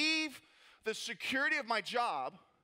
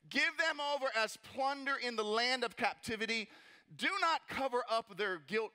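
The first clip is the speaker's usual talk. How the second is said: emphatic prayer with a touch of menace; praying mean; 2 semitones higher than usual. Acted. Nehemiah praying against Tobiah, praying mean. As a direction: plead firmly against the enemy. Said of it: "he is praying mean right now".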